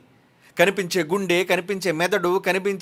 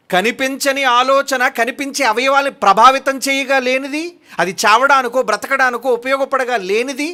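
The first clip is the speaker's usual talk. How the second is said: louder and higher, driving the point home; forceful preaching; 6 semitones higher, 5 dB louder than usual. Real, not acted. Preacher pressing the congregation on thought and blood, forceful. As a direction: hammer each phrase at the congregation.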